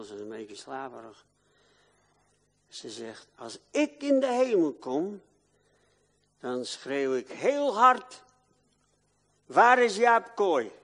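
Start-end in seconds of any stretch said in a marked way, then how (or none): 3.3-10.7 quoting wife. Retold or imitated. Wife quoted calling out.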